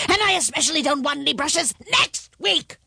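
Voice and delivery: high, building monster roar; dragon's roar. A narrator's reading. Dragon sends the peddler away, roaring. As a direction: roar it, hammering the last two words. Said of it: "the voice roared".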